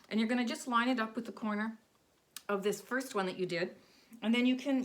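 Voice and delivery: talking around a stitch marker held in the lips; stitch marker in mouth. Real, not acted. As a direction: speak with something clenched in your mouth. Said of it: "I'm gonna do this with a stitch marker in my mouth".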